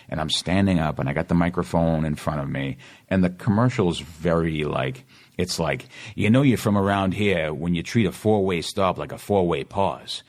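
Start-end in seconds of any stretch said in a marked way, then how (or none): 6.1-10.2 put-on commercial read in a local Boston accent. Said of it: "my Boston accent and stuff".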